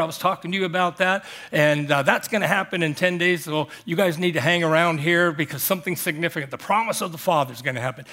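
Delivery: breezy, fast, offhand suggestion; casual suggestion. Shown as a demonstration. Pastor mocks a gentle Jesus, casual and offhand. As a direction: toss it off like a friendly hint. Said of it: "He didn't say that".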